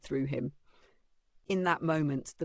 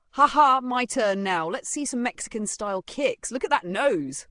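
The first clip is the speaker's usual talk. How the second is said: louder, higher, gleeful jeer; laughing boast; 8 semitones higher, 6 dB louder than usual. A narrator's reading. Strange-looking guy grabs the ball, jeering gleefully. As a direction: crow that it's your turn. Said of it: "grabbing the ball as he laughed".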